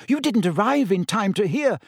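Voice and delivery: earnest, high-pitched; sincere explanation in a high voice. A narrator's reading. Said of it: "said Hermione earnestly".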